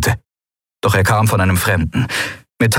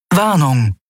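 ship computer voice; 7 semitones higher than usual. A narrator's reading. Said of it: "dröhnte die Stimme".

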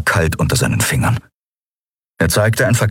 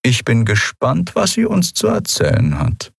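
higher-pitched, measured official voice; cold, composed commodore; 7 semitones higher than usual. Acted. Commodore correcting a prisoner about his work, cold and composed. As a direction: answer with controlled formality. Monaro's figure voice.

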